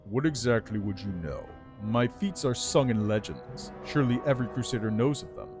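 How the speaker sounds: lightly voiced regal undead lich; haughty undead lord, measured and cool. Lich tells his story.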